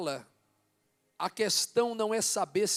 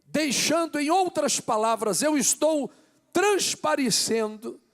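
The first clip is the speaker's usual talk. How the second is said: loud, high, impassioned preacher shouting to the church; fervent sermon climax, nearly shouted; preaching at full force; 6 semitones higher, 8 dB louder than usual. Acted. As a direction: build to fiery pulpit preaching, hammering each phrase.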